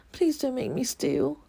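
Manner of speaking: put-on a boy's high, pleading voice; imploring boy. A narrator's reading. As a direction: beg him not to force you. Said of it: "implored Oliver".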